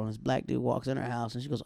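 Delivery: ordinary talk, nothing marked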